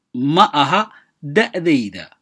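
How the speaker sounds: ordinary talk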